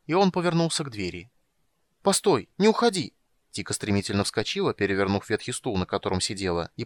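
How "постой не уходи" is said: high, louder cry after him; calling out. A narrator's reading. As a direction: call him back before he leaves. Tika calls after leaving mage.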